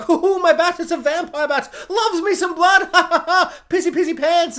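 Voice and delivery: mock villain gloating through laughter; high, loud, taunting laugh-talk; hammed-up cackling mockery; Negan. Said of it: "he's laughing and laughing and being like".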